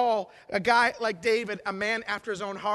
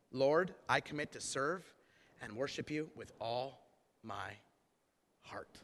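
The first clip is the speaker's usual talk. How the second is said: hushed prayer; 10 semitones lower, 10 dB quieter than usual. Acted. Sinner committing to serve the Lord, hushed prayer. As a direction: pray it softly, sinking almost to a whisper.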